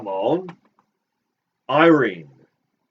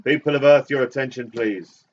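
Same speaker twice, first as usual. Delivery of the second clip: booming arrogant alien overlord. Pretend. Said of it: "This is Prostetnik Vogon Jolts".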